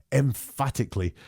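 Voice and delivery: "emphatically" set apart after a pause; emphatic stress. Retold or imitated. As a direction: lean on "emphatically" as its own beat. Stressing the quoted word for persuasion.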